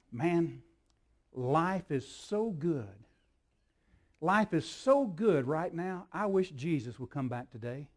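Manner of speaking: slow, drawn-out mock bliss at how good life is; mock contented sigh. Preacher mimicking a comfortable churchgoer, slow mock contentment. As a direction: savour it lazily, half-teasing. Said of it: "heard anybody say anything like this".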